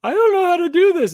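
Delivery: put-on high little-girl voice; high timid child at the checkout; nervous girl voice. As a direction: sound unsure as a young girl.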